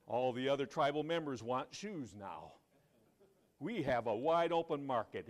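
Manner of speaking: loud, eager salesman's report; excited. Acted. Second salesman describing a wide open market, excited. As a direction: play up the thrill of a sale. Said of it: "he was excited".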